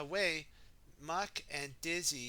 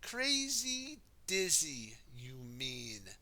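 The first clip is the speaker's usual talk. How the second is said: teasing Muck; slower than usual. Acted.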